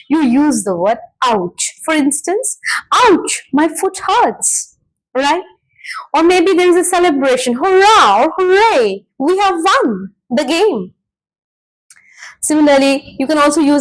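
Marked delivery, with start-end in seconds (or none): 2.9-4.8 mild mock pain, drawn out; pained exclamation. Shown as a demonstration. Teacher showing students an interjection for pain, pained exclamation. 7.5-10.9 demonstrated victory cheer; celebrating cheer. Shown as a demonstration. Teacher giving a celebration example, celebrating cheer.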